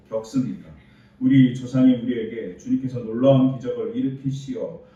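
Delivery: loud, protesting plea to God; arguing complaint. Acted. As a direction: press God hard for answers. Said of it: "이렇게 따집니다".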